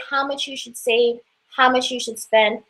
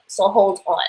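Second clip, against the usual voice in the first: put-on playful New York accent on hold on; 3 semitones lower than usual. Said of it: "That's my New York accent".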